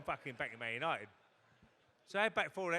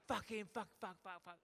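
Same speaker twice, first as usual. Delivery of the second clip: imitated French accent, higher-pitched string of curses; 5 semitones higher, 5 dB quieter than usual. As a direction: curse like a mock French manager. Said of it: "he comes in in a French accent".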